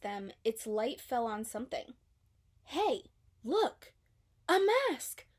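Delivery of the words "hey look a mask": high, louder excited calls; excited shout. A narrator's reading. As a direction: point it out, thrilled. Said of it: "Dory shouted".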